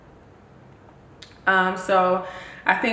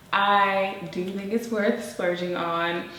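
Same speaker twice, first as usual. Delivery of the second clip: slow dramatic reveal; slower than usual. Real, not acted. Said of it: "slow reveal after drum roll".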